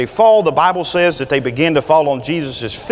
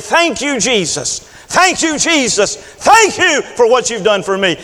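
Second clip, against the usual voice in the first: rising, higher grateful cries; fervent thanks; 5 semitones higher than usual. Acted. Woman at Jesus' feet, fervent higher thanks. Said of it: "she's saying".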